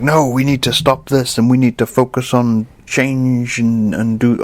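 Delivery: put-on slipped into an American accent for the government; lightly American-accented mock politician; a hint of American accent. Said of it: "I don't know why I went kind of American with this".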